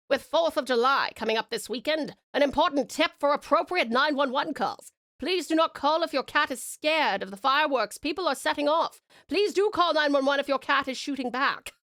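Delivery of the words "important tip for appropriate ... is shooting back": light mid-Atlantic newsreader voice; transatlantic accent. Pretend. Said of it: "you like my transatlantic accent".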